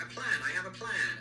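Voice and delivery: emphatic, mildly exasperated mock plea; mock insistence. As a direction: push it at someone who won't listen. Acts out Anthony repeating himself unheard.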